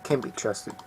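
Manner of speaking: quiet distrustful mutter; muttered under breath. A narrator's reading. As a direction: say it so only he hears. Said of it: "Arden mutters something under his breath".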